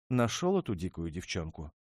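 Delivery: hurt princess throwing out a sneer; haughty retort. Acted. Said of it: "бросила она".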